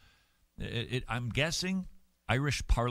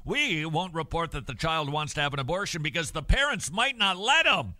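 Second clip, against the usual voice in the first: mock smug educator; 4 semitones higher than usual. Mocking the public education mindset toward parents, a rising smug voice. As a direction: ham up a condescending school official. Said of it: "the mindset in so much of public education is".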